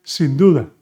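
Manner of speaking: clear, loud teaching demo; emphatic model phrase. Shown as a demonstration. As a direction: present "sin duda" with emphasis. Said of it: "You could also say".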